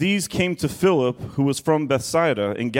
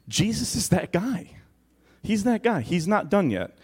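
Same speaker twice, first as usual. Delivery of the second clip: playful punchline; 5 semitones higher, 3 dB quieter than usual. Real, not acted. Joking punchline about Jesus.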